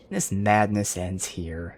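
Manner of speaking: slow, menacing mage threat; mock the villain's evil mage voice. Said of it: "prototypical evil mage voice".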